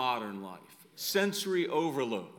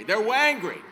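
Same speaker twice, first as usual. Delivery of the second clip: laughing; 5 semitones higher, 8 dB louder than usual. Real, not acted. Joke word wangry lands.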